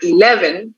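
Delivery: "eleven" with the weight on LEV; stress on second syllable. Shown as a demonstration. Teacher contrasts "eleven" stress with elephant for students. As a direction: say "eleven" punching the middle syllable. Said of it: "we stress the second syllable".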